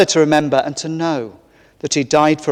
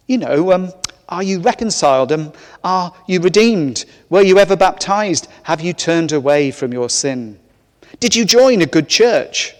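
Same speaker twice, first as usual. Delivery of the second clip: fussy angel; 3 semitones higher than usual. Acted. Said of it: "the angel replies".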